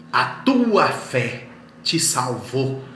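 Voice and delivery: loud, very slow quoted declaration; preacher voicing Jesus with force; emphatic proclamation.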